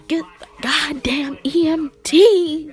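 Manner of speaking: hammed-up cry for medics; mock panicked shout. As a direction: holler for help like it's an emergency. Joking call for medics.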